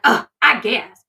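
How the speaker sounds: mock reluctant sigh. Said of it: "So she's like".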